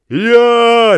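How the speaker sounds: high, loud bray of "Я"; donkey bray. A narrator's reading. Bargeman braying at the travellers. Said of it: "ревел судовщик".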